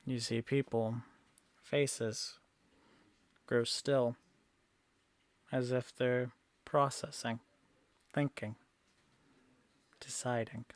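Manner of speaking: hushed scene-setting with long pauses; game master narration. A narrator's reading. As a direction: let each beat hang, softly.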